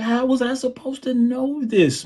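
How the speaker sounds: very high, stretched-out mock wail; retold bewilderment. Drummer baffled at what was expected, retold high wail. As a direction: replay a helpless protest, way up high. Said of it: "I'm like".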